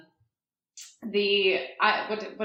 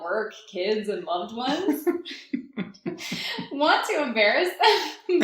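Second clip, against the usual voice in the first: ad read. Shown as a demonstration. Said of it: "this is me reading our first ever sponsorship tier ad".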